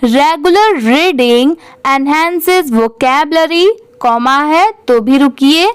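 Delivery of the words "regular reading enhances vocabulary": very slow, word by word with pauses; slow pausing read-aloud. Shown as a demonstration. Teacher reads paragraph aloud for students, very slow and measured. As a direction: read it slowly, pausing at every phrase. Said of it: "तो चलिए इसे ऐसे पढ़ेंगे".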